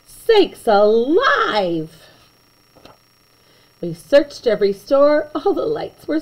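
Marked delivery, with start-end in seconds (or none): 0.0-2.1 slow, drawn-out astonished exclaim; hammed-up shock; mock gasp. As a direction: gasp it out in amazement. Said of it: "he gasped".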